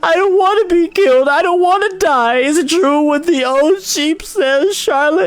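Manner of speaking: very high, loud terrified pig squeal; panicked piglet. Acted. Wilbur pleading with Charlotte, high terrified squeal. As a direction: plead in terror. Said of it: "screamed Wilbur".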